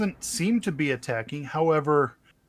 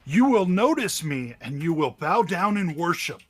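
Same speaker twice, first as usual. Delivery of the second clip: dark lord; 4 semitones higher, 3 dB louder than usual. Acted. GM voices creature demanding worship.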